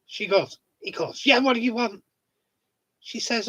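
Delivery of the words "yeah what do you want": brusque neighbour. Retold or imitated. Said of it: "he's brusque".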